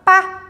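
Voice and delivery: "pá" set apart as one syllable; single syllable demo. Shown as a demonstration. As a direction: say "pá" alone, a lone beat. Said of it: "eu tô falando uma sílaba".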